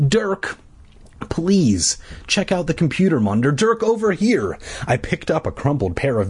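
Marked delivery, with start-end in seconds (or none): 0.1-4.6 high, pleading urge; urging. A narrator's reading. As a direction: beg him to look. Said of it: "I urged".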